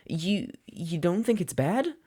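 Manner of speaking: put-on a boy daring to hope; young student asking his teacher, fragile and hopeful. A narrator's reading. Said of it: "that was definitely hope in his voice".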